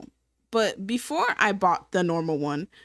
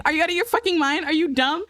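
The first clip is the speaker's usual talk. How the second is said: outraged yell; 6 semitones higher, faster than usual. Retold or imitated. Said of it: "I was like".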